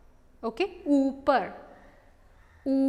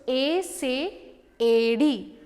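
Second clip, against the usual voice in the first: slow model word; much slower than usual. Shown as a demonstration. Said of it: "Repeat with me".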